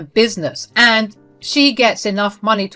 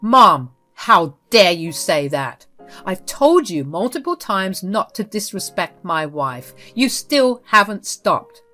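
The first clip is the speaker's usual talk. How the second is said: furious son; 4 dB louder than usual. Acted. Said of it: "Carter was even more furious now".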